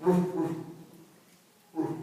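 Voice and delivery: short, low woofs with gaps; imitated barking dog. Neighbor's dog going all night, imitated barking. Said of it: "It's like that dog".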